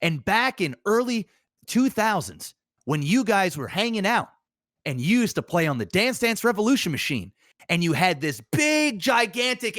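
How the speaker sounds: chummy interviewer building excitement; mock interviewer piling on details, rising in pitch; Nardwuar impression. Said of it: "And that's how he talks".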